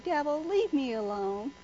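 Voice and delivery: slow, coy, flirty plea; a touch of mock flirting with the devil. Shown as a demonstration. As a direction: bat your eyes while saying it. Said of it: "bat your eyes at him".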